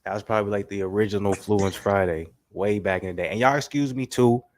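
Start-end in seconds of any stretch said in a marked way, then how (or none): 0.0-3.3 blocked nose, congested voice; talking through a stuffy cold. Real, not acted. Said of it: "if I sound stuffy".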